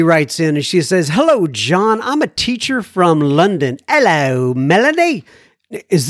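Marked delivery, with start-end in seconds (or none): 1.1-3.8 lilting, higher read-aloud voice; letter read-out. Acted. Reads listener's letter. 3.9-5.2 playful, hammed-up English-accented greeting; mock English accent. Mimics London listener's accent.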